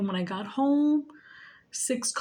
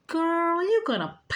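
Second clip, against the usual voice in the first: mock threat; 8 semitones higher than usual. Threatening sister taunt.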